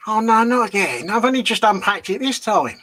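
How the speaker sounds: mock exasperation. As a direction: play up the outrage at packing away again. Mock complaint about packing benches.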